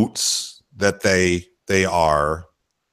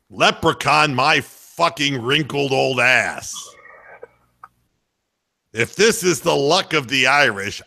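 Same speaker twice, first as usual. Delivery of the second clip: a hint of a gruff old announcer ranting, rising higher toward the end; mock outrage, building, some lines slowed; Tommy Heinsohn rant; 3 semitones higher than usual. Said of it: "in his own inimitable way".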